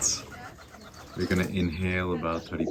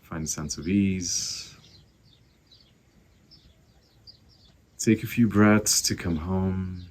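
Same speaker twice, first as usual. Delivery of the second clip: guided meditation; 4 dB louder than usual. Acted. Teacher guiding listeners to find their breath, calm meditation voice. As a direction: ease them into the breath.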